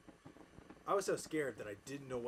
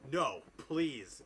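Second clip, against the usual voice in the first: louder mock plea; begging; 3 semitones higher, 7 dB louder than usual. Narrator pleading with Voldemort, mock begging. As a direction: beg with hammed-up emphasis. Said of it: "I begged".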